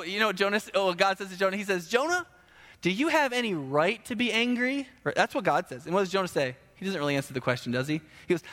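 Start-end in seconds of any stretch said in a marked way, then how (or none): 1.9-4.9 lightly voiced, higher questioning tone; a hint of a probing parent; questioning God. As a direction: put the question to Jonah as God would. God's question to Jonah, acted.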